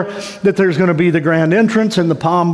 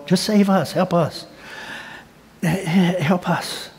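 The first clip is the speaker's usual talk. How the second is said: begging crowd; 7 dB quieter, slower than usual. Retold or imitated.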